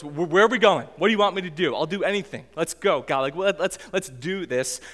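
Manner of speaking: hammed-up eagerness, like an impatient recruit; mock-impatient volunteer begging for orders; amped-up eagerness. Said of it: "still all amped up".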